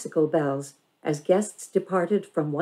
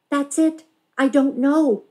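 put-on excited girl; 9 semitones higher, 5 dB louder than usual. A narrator's reading. Excited girl admits ignorance.

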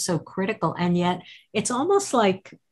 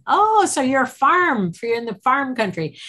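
mock realization; 8 semitones higher, 4 dB louder than usual. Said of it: "because I go".

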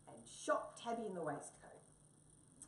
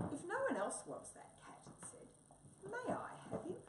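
small mouse voice; 13 semitones higher than usual. Acted. Mouse asks the sergeant politely.

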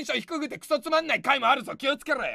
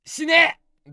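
mock refusal; 4 semitones higher, 9 dB louder, much slower than usual. Refuses commenter's request.

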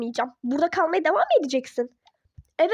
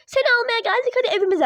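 mocking parents; 5 semitones higher, faster than usual. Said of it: "Sonra yıllar sonra geliyorsunuz".

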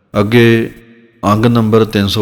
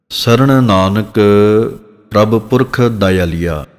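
slow recitation; slower than usual. Shown as a demonstration. Teacher recites scripture line slowly.

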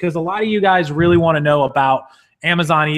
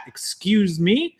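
whispered excuse me; 2 semitones higher, much slower than usual. Real, not acted. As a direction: murmur it off-mic, slow. Aside while bringing up chat.

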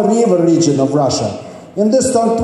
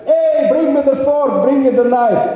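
calling to friends; 5 semitones higher than usual. Acted. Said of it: "then he's asking his friends".

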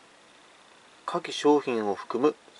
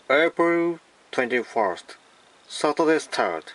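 mock English accent; 3 semitones higher, much slower than usual. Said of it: "英語っぽく言ってみます".

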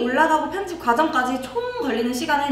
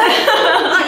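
ordinary talk

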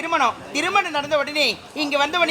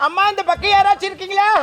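calling out; 5 semitones higher, 4 dB louder than usual. Acted. Calling out repeated.

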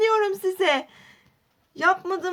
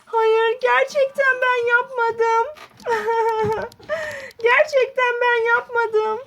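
tearful pleading; 4 semitones higher, slower than usual. Acted. Aden ağlayarak yalvarıyor.

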